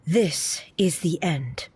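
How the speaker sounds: slow breathless whisper; defeated whisper. Acted. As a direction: concede it barely voiced. Defeated after final blow.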